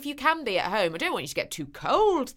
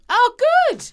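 excited; 11 dB louder than usual. Real, not acted. Delighted reaction to letter.

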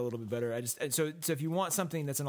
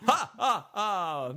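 bursts of loud, high laughter; real laughter; 8 semitones higher, 5 dB louder, much slower than usual. Real, not acted. Cohost laughing at the Transylvanian Australian joke, loud real laughter.

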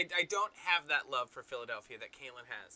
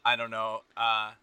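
mock Philly accent; 4 semitones lower than usual. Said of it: "I'm trying to do my Philly accent".

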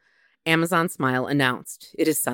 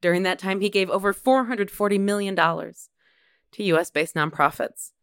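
mock eulogy.

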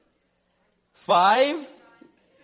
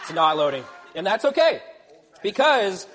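laughing, louder; 3 semitones higher, 7 dB louder than usual. Real, not acted.

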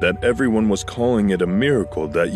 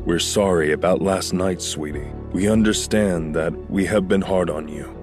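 tag; 4 semitones lower than usual. Acted. Parent apologises to daughter.

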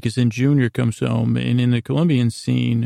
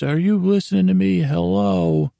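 imitated yell; 7 semitones higher than usual. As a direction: bark it out, acting the fed-up boss. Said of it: "And he even yells".

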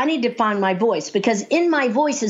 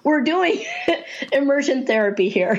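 higher-pitched, amused retold announcement; laughing aside; 3 semitones higher than usual. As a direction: break into laughter while excusing her. Joking to audience about crying client.

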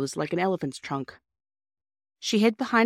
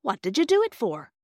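gruff driver voice; 5 semitones higher than usual. A narrator's reading. Driver questions girl.

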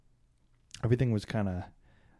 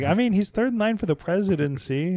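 higher, louder tour-guide reply; retold explaining; 11 semitones higher, 7 dB louder than usual. Tour lady answers clueless tourists, explaining emphatically. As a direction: raise the voice to stress his importance, imitating the guide.

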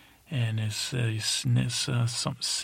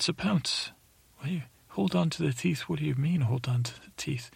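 higher, baffled questioning; high puzzled voice; 5 semitones higher than usual. Acted. Teller voices himself puzzling at Sir Pounce, high and baffled. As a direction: ask it high and puzzled, like a startled kid.

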